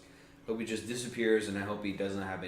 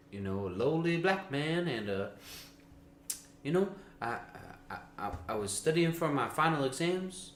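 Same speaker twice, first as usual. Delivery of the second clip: lightly raised, sleepy voice; higher pitched Ben Carson. Retold or imitated. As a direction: tell it high and dozy. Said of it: "Higher pitched like that".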